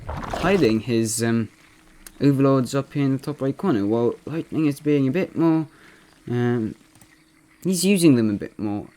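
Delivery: lightly imitated esports caster; Loco impression. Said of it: "I'm gonna be impersonating Loco".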